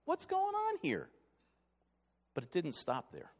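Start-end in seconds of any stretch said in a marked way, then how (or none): 0.0-1.1 high, baffled exclamation; a congregant scratching their head, baffled; puzzled what. Pretend. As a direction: play a confused listener. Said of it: "scratch your head and say".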